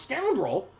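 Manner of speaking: mock shout from an offended gnome; gnome woman's shout. A narrator's reading. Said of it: "the gnome woman shouts".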